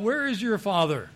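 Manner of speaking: understated heckler's shout; heckler calling out. Acted. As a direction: call it out with a touch of challenge. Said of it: "So the heckler called out".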